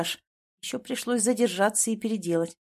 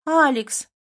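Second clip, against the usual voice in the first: high, louder pouty call of his name; pouting coo; 6 semitones higher, 6 dB louder than usual. A narrator's reading. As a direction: pout at him coyly. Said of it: "Аня складывает губы бантиком".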